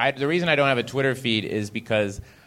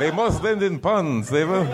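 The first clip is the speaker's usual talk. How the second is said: stern editor; 6 semitones higher than usual. Retold or imitated. Writer mimicking Asimov's pun rule. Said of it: "he wanted that".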